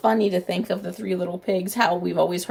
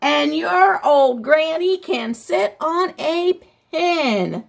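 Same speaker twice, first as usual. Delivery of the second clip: higher, slow taunting call; lightly voiced pig jeering; mock yell; 6 semitones higher, 3 dB louder, slower than usual. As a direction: taunt the wolf from inside. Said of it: "the third little pig yelled".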